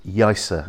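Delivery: Yaiza as YAI-sa. Shown as a demonstration. Guide repeating the county town's name, Z softened to S. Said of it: "the Z becomes almost an S sound".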